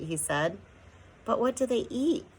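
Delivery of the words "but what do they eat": wail. A narrator's reading. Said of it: "wailed Homily".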